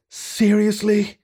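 slow, drawn-out high disbelief; disbelieving. A narrator's reading. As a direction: stretch it out, unimpressed. Bear unimpressed by archaic talk.

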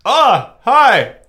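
high, loud, puzzled hello in a put-on African-French accent; a confused player's accented greeting over a delayed line; Idrissa Gueye accent. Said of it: "That's my accent for Idrissa Gueye".

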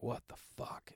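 unvoiced whispered shock; hushed whisper. Hearing the man talk about a gun, whispered shock. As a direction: breathe it out under your breath.

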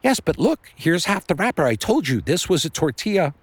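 high-pitched frantic insistence; frenzied. A narrator's reading. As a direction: burst out, desperate to prove it. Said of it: "he was so frenzied with finding the wrapper".

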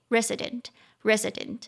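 resident stressed on the first syllable RE. Shown as a demonstration. Teacher shows class the stress, resident with stress on RE. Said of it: "中音节在第一音节".

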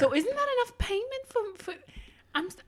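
put-on Jersey accent. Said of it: "test out your Jersey accent".

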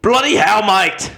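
high, loud attempt at a Scottish accent that drifts Australian; bad Scottish accent. Podcast host showing friends his best Scottish accent, hammed-up and bad. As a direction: ham up a clumsy Scottish accent. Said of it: "my best Scottish accent".

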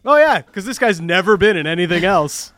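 sarcastic. Retold or imitated. Mocking a sports broadcast label.

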